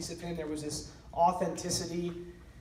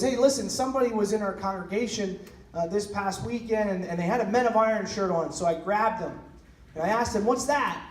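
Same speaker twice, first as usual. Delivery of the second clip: mildly excited caller, higher and louder; retold excitement; 3 semitones higher, 4 dB louder than usual. Pastor phoning about a visitor in his congregation, mildly excited. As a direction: relay an eager phone call with a lift in pitch. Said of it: "he's all excited, and he goes".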